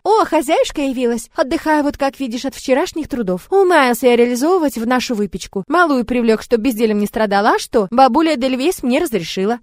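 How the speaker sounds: lazy, smug little creature; a cocky pet lounging in a bath; cheeky familiar voice. Acted. The familiar Kerin speaks.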